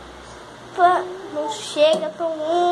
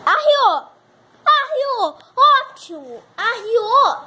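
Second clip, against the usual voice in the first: exasperated cry; 5 semitones higher, 8 dB louder, slower than usual. Real, not acted. Camera knocked down.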